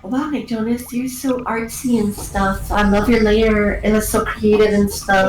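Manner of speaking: slow, drawn-out gushing; mock gushing admiration. Group admires a singer's lair, mock gushing. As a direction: stretch the compliments out slowly.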